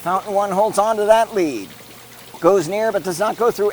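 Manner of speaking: brisk sportscaster call of the race; live play-by-play. Acted. Commentator calling the fountain race live.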